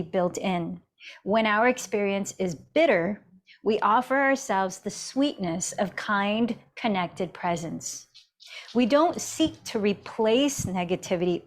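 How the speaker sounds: measured, emphatic reading of an inspirational excerpt; reading aloud. Real, not acted. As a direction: read it out deliberately, leaning on key words.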